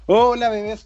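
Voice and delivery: campy drag queen. Acted. Host's campy greeting.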